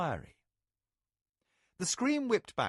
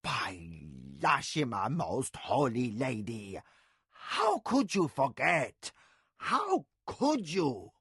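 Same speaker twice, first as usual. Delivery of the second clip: hammed-up horrified nurse; aghast; slower than usual. A narrator's reading. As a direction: plead in shocked disbelief. Nakoya voiced, aghast.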